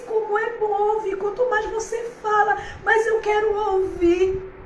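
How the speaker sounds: high, loud, joyful cry with a shout at the end; overflowing with tearful joy. Retold or imitated. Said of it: "ela chorando".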